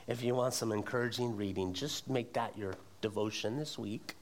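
dry tongue-in-cheek suggestion; sarcastic. Acted. Pastor teases the congregation about Job, mildly sarcastic. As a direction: say it as a wink at the church. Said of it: "said sarcastically".

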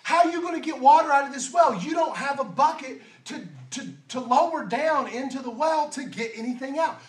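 a skeptical woman complaining he has no bucket; the woman's retort. Acted. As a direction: push back at him in disbelief. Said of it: "the way I would say it if I was the woman".

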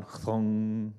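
imitated speaker hum switching on; speaker power-on thump. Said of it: "that sound when a speaker turns on".

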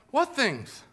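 feigned ignorance, lightly acted; playing coy. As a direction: ask it as if you had no idea. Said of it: "Jesus is just playing, you know, coy there".

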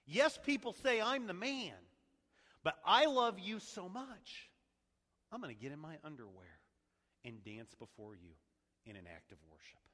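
a king humbling himself, building then falling away; David's heartfelt plea. Retold or imitated. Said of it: "he's saying".

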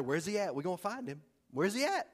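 lightly voiced hunters on the prowl; a hint of a tracker calling out; playful hunting party voice; hunters searching. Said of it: "I don't think they talk like that".

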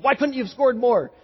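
mildly scolding perfectionist father; lightly acted rebuke of a son; chiding. Father to son after a football game, mildly chiding. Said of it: "in a chiding way, kinda like some".

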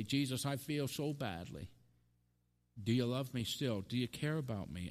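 softly voiced, vulnerable plea; lightly acted, subdued appeal; hurting prayer. Hurting believer praying to Jesus, gently pleading.

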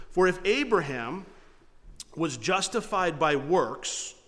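slow, weighty reading of the verse; slow scripture reading. Shown as a demonstration. Pastor reads the verse to his congregation, slow and weighty. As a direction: let each word of the verse land slowly. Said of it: "Look what he says in verse two".

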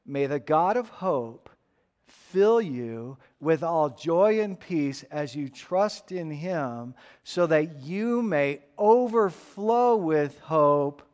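slow, solemn blessing; prayer reading. Shown as a demonstration. Preacher reads a blessing to the congregation, slow and solemn. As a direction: pray it slowly over the people. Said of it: "Listen to it".

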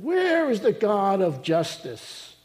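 slow, drawn-out mock demand; challenging attitude. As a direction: stretch out the opening like an affronted accuser. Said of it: "here's another attitude".

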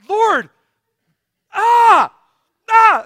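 high, loud wail to heaven; exasperated cry. Retold or imitated. Stuck driver calling on the Lord, exasperated yelling. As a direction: holler out in hammed-up despair.

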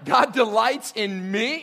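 slow, loud, scandalised question on God delights in me; incredulous. Acted. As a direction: recoil at the very idea. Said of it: "You're not supposed to talk like that".

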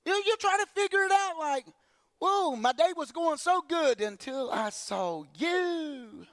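high, slow, drawn-out disbelief; mock exasperation. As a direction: play the fed-up believer.

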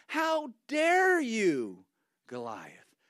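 put-on young David building to a bold shout of faith; defiant young David. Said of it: "He thinks in his mind".

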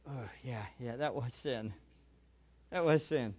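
quietly admitting it to yourself in bed; hushed private admission; quiet realization. Retold or imitated.

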